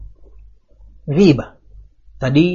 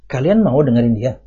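advice-like tone; 5 semitones lower than usual. Retold or imitated. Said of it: "Gitu loh nadanya".

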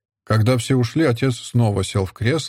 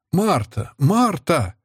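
higher-pitched mild cry for someone; raised-pitch summons; calling out; 7 semitones higher, much slower than usual. A narrator's reading. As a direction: call the maid without real shouting. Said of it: "закричала в это время мать".

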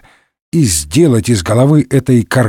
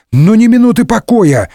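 higher, mildly hammed exasperation; indignant outburst; 8 semitones higher, 3 dB louder than usual. A narrator's reading. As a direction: throw up your hands at another knock. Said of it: "возмутился Д'Артаньян".

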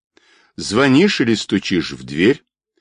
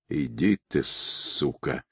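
quiet hateful curse through pain; hateful low snarl; 4 semitones lower, 10 dB quieter, slower than usual. A narrator's reading. Beaten man curses the fake captain with hatred, softer. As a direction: spit it out low with hatred, voice dropped away. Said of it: "с ненавистью посмотрел".

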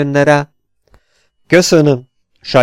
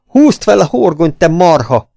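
loud, higher bark of orders; barking command; 4 semitones higher, 4 dB louder than usual. Acted. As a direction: command the crew like a boss. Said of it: "Vezényelt a szokott hangon".

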